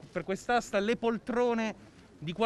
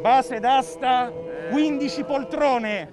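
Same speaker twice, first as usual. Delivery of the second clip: loud auctioneer call; 7 dB louder, slower than usual. Pretend. Auctioneer announcing, loud slow.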